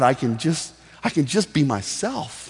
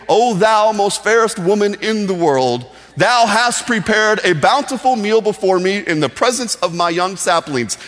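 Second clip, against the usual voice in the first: loud, higher, grand mock-biblical declaiming; theatrical King James style; 5 semitones higher, 5 dB louder than usual. Husband mock-praising his wife's meal, theatrical King James style. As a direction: declaim it like an overblown stage address. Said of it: "big theatrical language or King James type".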